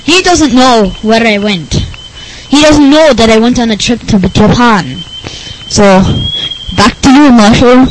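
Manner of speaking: lightly voiced goofy nerd; a hint of odd nerdy voice, matter-of-fact; Rick Berner. Nerd guest hands back to host, goofy voice.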